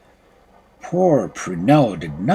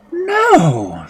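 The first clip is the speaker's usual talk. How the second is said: put-on girl crying out; 4 dB louder than usual. A narrator's reading. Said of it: "cried Prunella".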